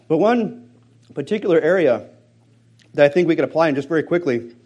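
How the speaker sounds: talking while crunching ice; words around a mouthful of ice. Real, not acted. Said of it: "If you hear me crunching".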